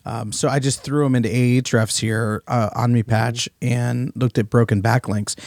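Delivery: rough, hoarse throat today. Real, not acted. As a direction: talk through a hoarse voice. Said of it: "Excuse my voice".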